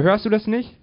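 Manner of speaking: high, loud, excited shouting; agitated high cries; calling out. A narrator's reading. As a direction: shout it urgently, pitched right up. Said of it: "rief er".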